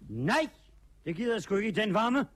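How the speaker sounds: fast, firm little-guy voice; determined little fellow. Acted. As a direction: refuse briskly as the bossy little tramp. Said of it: "den anden er en lille bestemt en".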